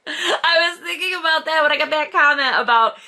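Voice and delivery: high-pitched, giggly talk; laughing. Real, not acted. Amused by a viewer's comment.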